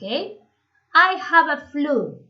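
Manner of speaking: very slow, every word spelled out for students; slow model reading. Shown as a demonstration. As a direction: lay it out slowly so the class can copy. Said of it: "teacher models the phrase slowly". (lento y marcado, como modelo para los alumnos)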